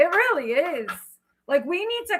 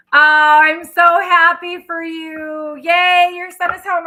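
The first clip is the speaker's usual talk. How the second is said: louder, slow, drawn-out joy; happy exclaim; 4 semitones higher, 8 dB louder, slower than usual. Real, not acted. Congratulating a viewer whose son is home, real excited joy. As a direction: cheer for her like real good news.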